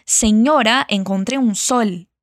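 "sol" ending on a clear Spanish L; clear final L. Shown as a demonstration. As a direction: keep the L in "sol" distinct, tongue to teeth. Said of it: "cuida la pronunciación de la L en sol".

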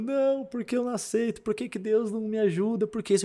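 high, put-on crying voice; imitating tearful complaint. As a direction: wail it mockingly, like a boy bargaining with God. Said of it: "o cara chorando". (imitação de choro queixoso, voz aguda)

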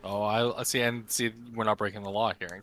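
slightly high, loose and rambling; talking while stoned. Real, not acted. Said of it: "I'm high as a kite right now".

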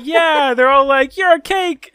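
high, loud mock-excited Mom; imitating excited mother. Mother explaining the cake meme to her child, imitated high and loud. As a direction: pitch it way up, recounting eagerly as Mom. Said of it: "And she's like".

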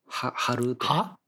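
「は」 drawn out slowly before 春; Kyoto dialect ha. Shown as a demonstration. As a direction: stretch the 「は」 sound, then 「春とか」. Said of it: "京都弁、は行が".

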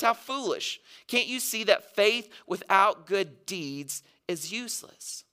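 mildly mocking scripture quote; a little sarcastic. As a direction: scold them with a touch of sarcasm. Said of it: "he gets a little sarcastic".

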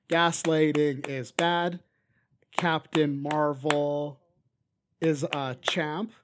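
slow haiku recital, syllable by syllable. Shown as a demonstration. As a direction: chant the haiku slowly, counting beats. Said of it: "Let's do it all together".

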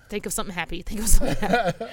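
1 pleading self-talk, laughing. Retold or imitated. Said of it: "I'm like".

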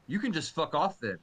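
mock-stern quote; stern quoted chef. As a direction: quote the chef's stern order, lightly acted. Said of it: "Ramsey said sternly".

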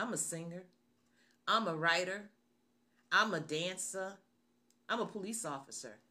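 proud, assured self-introduction; confident declaration. Acted. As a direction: announce each title with full self-assurance. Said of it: "We say those things with confidence".

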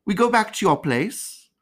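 comic, amateur Essex voice; attempted Essex accent. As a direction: have a playful go at an Essex come-on. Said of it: "I don't know if I did that right".

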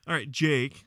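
lightly voiced Irish brogue; a hint of a leprechaun. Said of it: "did I sound like a leprechaun?".

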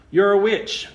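slow, high, loud accusing shout; mock mob shout of accusation; villagers shouting. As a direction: yell it at her like a mob. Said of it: "they shouts".

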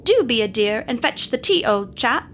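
lightly voiced droning posh aristocrat; nasal upper-class drone. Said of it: "the nasal droning of an aristocrat".

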